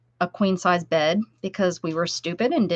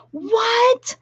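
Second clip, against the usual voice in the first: surprised what. Real, not acted. Reacting to a viewer's comment.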